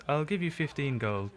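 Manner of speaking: flat repeat of I'll give you fifteen gold; deadpan repeat. Acted. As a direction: repeat the offer dryly. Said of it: "just looks back at you and says".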